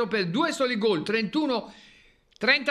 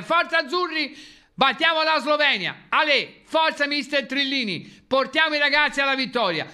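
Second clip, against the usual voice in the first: rousing cheer; 4 semitones higher than usual. Real, not acted. Cheering on the national team.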